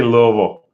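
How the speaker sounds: Louisville run together as "LUH-vul"; mouthful of marbles. Shown as a demonstration. Defending his own Louisville to viewers, marble-mouthed. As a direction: say Louisville as two loose syllables, "Luh-vul". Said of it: "like you got a mouthful of marbles".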